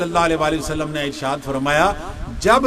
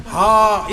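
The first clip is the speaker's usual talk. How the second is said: yawn sound; much slower than usual. Shown as a demonstration. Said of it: "اس طرح کی آوازیں نکالتے ہیں نا".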